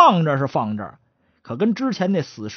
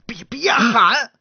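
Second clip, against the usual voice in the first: urgent whisper; 6 semitones higher, 5 dB louder, much slower than usual. Acted. Hushing partner in graveyard.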